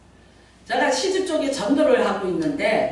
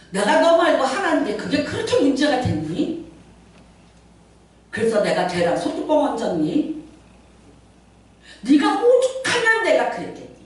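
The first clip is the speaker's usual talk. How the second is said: defensive husband; 3 semitones higher than usual. Retold or imitated. Elder's excuse, voiced in story.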